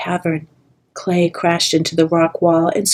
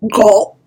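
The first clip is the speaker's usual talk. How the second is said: squawked gulp; 3 semitones higher, 6 dB louder than usual. Acted. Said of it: "Clay squawked".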